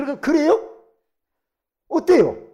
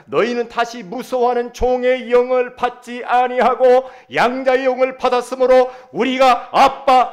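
loud, high scripture declamation; full-force preaching; 10 semitones higher, 16 dB louder than usual. Real, not acted. Preacher reading Romans to the congregation, full-force preaching. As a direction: proclaim the verse at full volume.

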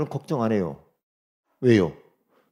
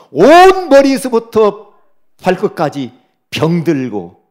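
slow, weighty reading; 7 dB louder, slower than usual. Acted. Reading God's rebuke, slowly.

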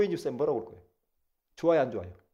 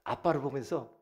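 normal talking voice

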